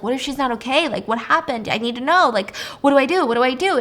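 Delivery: acted jittery worry, lightly done; nervous. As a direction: mildly panicky string of questions. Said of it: "he seems really nervous".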